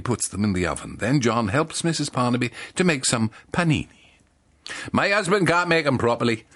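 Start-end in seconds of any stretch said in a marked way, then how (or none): 4.9-6.4 lightly done Welsh baker's wife; a hint of a Welsh lilt, pitched up; Welsh accent. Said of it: "says Missus Barnaby".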